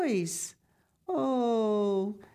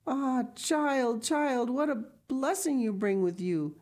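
put-on high, moved old woman's exclamation; grateful exclamation; 8 semitones higher than usual. A narrator's reading. Grandmother receives the rolls from Heidi, exclaiming. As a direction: exclaim it high, overcome with gratitude.

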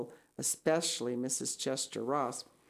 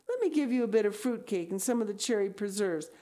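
quick, rising, anxious pleading; imploring; 7 semitones higher, 4 dB louder, faster than usual. Acted. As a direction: coax urgently, climbing to a high worried question. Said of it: "implored Anne".

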